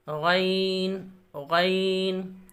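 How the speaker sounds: गैन drawn out very slowly and softly, gargled; slow ghain. Shown as a demonstration. Teacher drills गैन slowly for students. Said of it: "letter drill".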